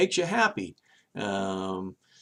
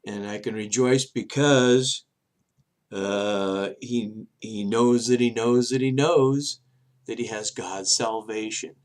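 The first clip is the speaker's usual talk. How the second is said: rejoicing; 3 semitones lower, slower than usual. Retold or imitated. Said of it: "And he goes".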